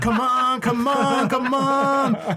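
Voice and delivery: high, urgent come on repeated; straining and urging himself on; mock straining urge.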